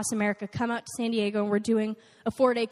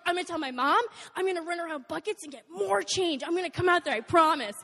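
pumped; 5 semitones higher than usual. Retold or imitated. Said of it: "so pumped".

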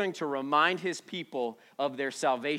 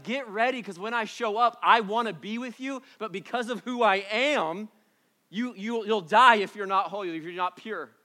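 high, forceful preacher voicing God; urgent warning; 5 semitones higher, 5 dB louder than usual. Preacher voices God warning his people to be pure, urgently. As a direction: press the warning, pitched up and insistent.

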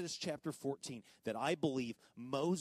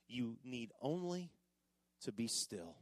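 softer and lower, hushed; quiet stillness; 5 semitones lower, 7 dB quieter than usual. Shown as a demonstration. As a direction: let it settle gently. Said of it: "Look at that last line".

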